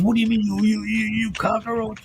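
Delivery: mock the outraged old lady sputtering; imitating an old lady. Retelling the bus passenger's insult, mildly mocking old lady voice. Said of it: "She goes".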